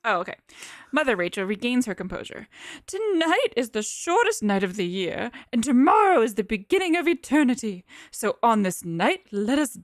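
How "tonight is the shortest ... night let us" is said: 1920s voice. Acted. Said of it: "I get to do my nineteen twenties voice".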